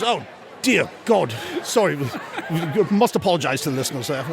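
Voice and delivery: Australian radio host. Acted. Host apologising to listeners, light Australian accent. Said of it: "this Australian radio station's holding a contest".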